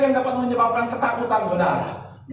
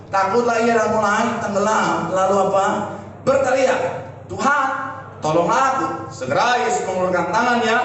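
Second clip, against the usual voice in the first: scripture reading. Acted. Reads Bible verse aloud.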